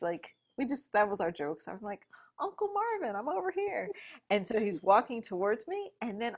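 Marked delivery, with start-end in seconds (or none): 2.4-3.9 high calling out. Retold or imitated. New mother calling her friend from the recovery bed, high playful call. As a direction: sing out his name high, playful.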